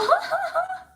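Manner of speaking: high, delighted squealing laugh. Real, not acted. Narrator relives joy at being invited, squealing laughter. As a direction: let out a giddy squeal of a laugh.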